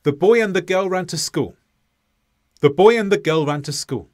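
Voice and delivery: every syllable given equal time, even beat; syllable timed. Shown as a demonstration. Teacher demonstrating syllable-timed rhythm, even syllables. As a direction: tap out each syllable evenly like a metronome. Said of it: "Listen to the first time".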